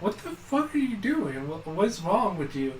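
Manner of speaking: high-pitched mock bewildered dad; imitating startled dad. Dad reacts to slammed door.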